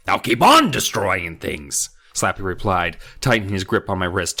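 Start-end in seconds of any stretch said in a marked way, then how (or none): 0.1-1.9 menacing dummy voice. Acted. Dummy threatening.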